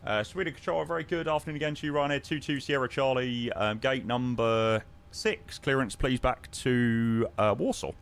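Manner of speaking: brisk airline pilot on the radio; crisp professional ATC radio voice; pilot radio call. Acted. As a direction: read it back like a captain talking to tower.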